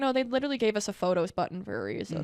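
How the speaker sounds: ordinary talk, nothing marked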